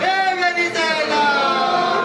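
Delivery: slow, drawn-out grieving calls to his daughter; wailing lament. Acted. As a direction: stretch each cry to Zainab like a sob. Ali wailing calls to Zainab.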